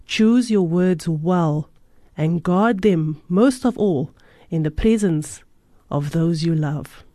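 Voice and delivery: calm storytelling read aloud; story narration. A narrator's reading. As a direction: read it like a parable. Reads a moral story aloud.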